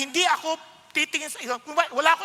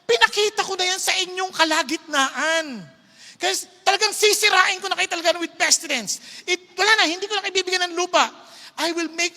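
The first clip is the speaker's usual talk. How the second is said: stern God; 3 semitones higher than usual. Retold or imitated. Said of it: "sabi niya".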